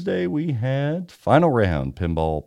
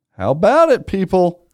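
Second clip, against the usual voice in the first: alien voice; 9 semitones higher, 6 dB louder than usual. Acted. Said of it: "That's my alien sound".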